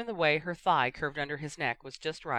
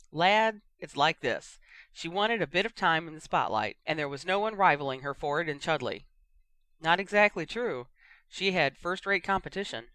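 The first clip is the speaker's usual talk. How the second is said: blunt, louder co-commentator; gruff pundit; 3 dB louder than usual. Acted. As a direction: set the young one straight. Pundits argue on air.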